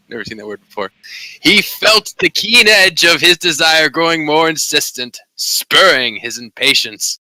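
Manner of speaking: reading a steamy romance aloud, half amused; story narration. Acted. Reading a romance novel to friends in voice chat, hammed-up narration. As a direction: lay the purple prose on thick.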